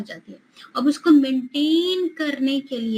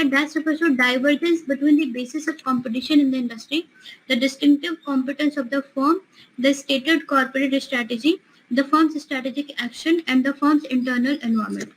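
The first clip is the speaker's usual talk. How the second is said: slow, deliberate exam-question reading; reading a question aloud; much slower than usual. Acted. Teacher reading a quiz question to students, slow and deliberate. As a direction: read it out word by word for the class.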